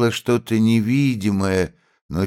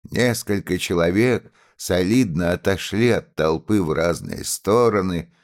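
ordinary delivery

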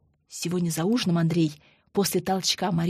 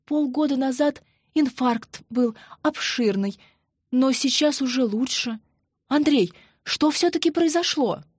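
a lightly voiced tight-throated mother, higher; strained, choked voice; 5 semitones higher than usual. Mother tells her son about the heart attack, choked. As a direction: speak as if the throat is squeezed. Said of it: "заговорила не своим голосом, точно ей горло стиснули".

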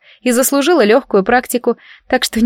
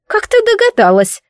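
excited cry; 13 semitones higher than usual. A narrator's reading. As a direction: burst out in amazement. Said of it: "вскричала совушка так экспрессивно".

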